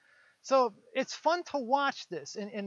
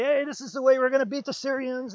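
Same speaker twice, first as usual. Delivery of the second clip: pep rally cheer; 5 semitones higher, 9 dB louder than usual. Acted. Prophets rally the crowd.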